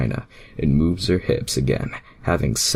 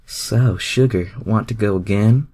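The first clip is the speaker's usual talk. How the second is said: Rogue; 6 semitones higher, 5 dB louder than usual. A narrator's reading. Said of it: "Rogue asked".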